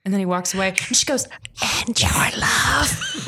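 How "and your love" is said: slow, drawn-out melodramatic yearning; hammed-up soap-opera longing; mock lovelorn. Leary calls after Jamie as he leaves, mock lovelorn. Mocking the worst line.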